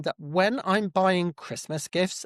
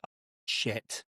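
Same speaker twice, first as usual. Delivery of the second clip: quiet swear; 6 semitones lower, 8 dB quieter than usual. Retold or imitated. I'm gonna swear now.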